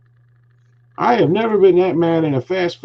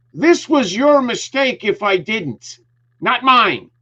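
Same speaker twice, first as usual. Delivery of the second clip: much higher, slow indignant protest; retold angry protest; 9 semitones higher, slower than usual. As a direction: throw the blame back at him, pitched high. Retold argument about receipt.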